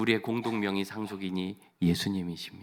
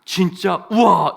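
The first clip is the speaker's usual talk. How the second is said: loud, high, amazed "진짜? 우와!"; excited reaction; 9 semitones higher, 16 dB louder, much slower than usual. Shown as a demonstration. The ideal husband reacts to his wife's news with loud excitement. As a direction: gasp with big amazement. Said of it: "이래야 되는데".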